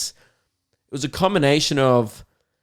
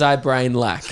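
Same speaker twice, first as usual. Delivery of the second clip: quoting the friend through a laugh; lightly laughing as he repeats it; laughing quote; 4 dB louder, slower than usual. Retold or imitated. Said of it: "And he goes".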